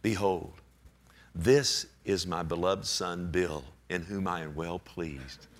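low, slow, solemn divine voice; voice from heaven. Retold or imitated. Preacher imitates heaven addressing Bill, low solemn pronouncement. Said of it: "a voice from heaven saying".

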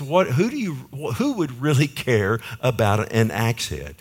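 high-pitched, mildly exaggerated disbelief; incredulous questioning. Preacher retells questioning the Lord over an axe head, incredulous. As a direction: ask it as a baffled retold prayer.

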